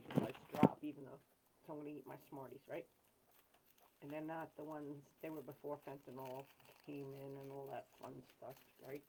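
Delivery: talking while chewing candy; mouth full. Real, not acted. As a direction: speak around a mouthful of candy. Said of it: "Don't normally talk with my mouth full".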